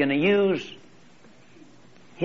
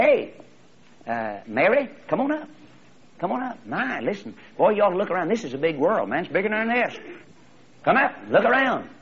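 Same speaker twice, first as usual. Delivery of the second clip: excited little eaglet; 6 semitones higher than usual. Acted. Eaglet calls sibling up excitedly.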